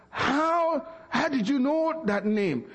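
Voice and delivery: high, stunned how did you know; astonished question. Retold or imitated. Shaken husband asking the preacher how he knew, astonished and high. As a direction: pitch it up in disbelief. Shaking man asking the stranger.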